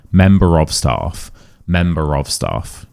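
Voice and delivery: "Member of staff" slow, R linking into "of". Shown as a demonstration. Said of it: "so we do say it".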